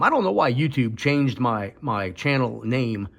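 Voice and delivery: talking with missing front teeth and stitches; speech slurred by fresh stitches. Real, not acted. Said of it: "I apologize if I'm talking funny".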